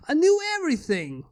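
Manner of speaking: excited breathless whisper. Acted. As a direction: whisper it like a thrilling secret. Inventor unveils creations.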